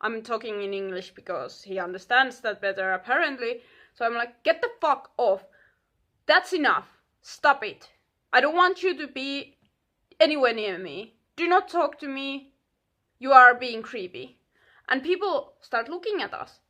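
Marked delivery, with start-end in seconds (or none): 4.4-14.4 retold snap. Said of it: "when I snap, I snap hard".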